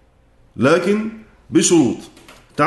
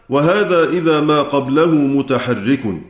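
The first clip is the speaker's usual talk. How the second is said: verse recitation; slower than usual. Acted.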